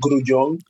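"Grullon" said as groo-YON; Spanish-accented "Grullon" for others to copy; Spanish pronunciation. Shown as a demonstration. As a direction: model "Grullon" in Spanish, stress at the end. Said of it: "That would be the Spanish".

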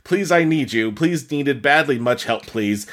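hammed-up urgent pleading; mock begging. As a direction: read the urgent plea with growing mock desperation. Reading the pleading post aloud.

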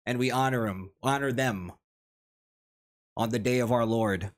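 lightly ceremonial awards-show oratory; mock-solemn speech. Host opening the year-end awards for friends, mock-solemn. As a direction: pronounce it grandly with long pauses between phrases.

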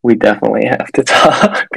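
amused, laugh slipping into the last word. Real, not acted. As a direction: repeat it with a laugh breaking in before "talk". Repeats the line, breaking into laughter.

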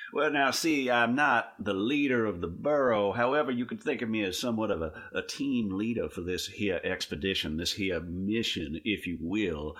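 pompous leader voice. Acted. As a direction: play the bossy know-it-all leader. Player voices pompous boss character.

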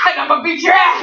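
mock-furious crying shout; shouting match. Real, not acted. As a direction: yell the threat half sobbing. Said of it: "stop yelling at me".

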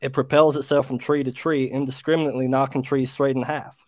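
reading in a put-on American accent. Brit reads creature tale to friends on request, American accent. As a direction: read it aloud like an American. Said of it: "Yeah, American accent".

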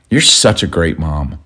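slow, low sarcastic jab. Retold or imitated. Husband mocking wife's nagging about his snack, sarcastic. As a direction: say it dry, to needle her. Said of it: "here's the context and the tone".

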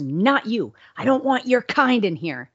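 imitating the rude clerk; mock hostile clerk. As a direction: sneer at her kind. Clerk refusing, retold.

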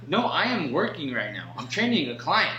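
acted-out indignant correction; retold exasperated rebuff. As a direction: push back as if mildly fed up. Acts out rebuffing the woman.

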